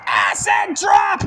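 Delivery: slow, drawn-out hype call; stretched-out call. Acted. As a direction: drag out the move's name. Calling the finisher.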